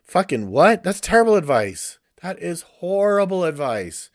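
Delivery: indignant outburst. Real, not acted. Ranting vlogger blasts bad therapist advice, outraged. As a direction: spit it out like you can't believe it.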